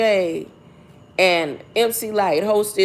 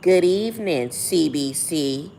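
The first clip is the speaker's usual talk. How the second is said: mock Kamala greeting; 4 semitones lower than usual. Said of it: "she said".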